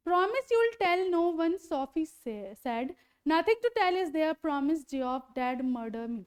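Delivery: slow, deliberate reading of the English text, word by word; slow story reading. A narrator's reading. Teacher reading the novel aloud to students, slow and careful. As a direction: read each line out slowly for the class.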